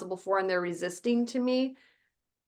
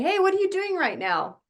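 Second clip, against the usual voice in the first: sweet interested mom; 10 semitones higher than usual. Retold or imitated. Mom connecting with her child.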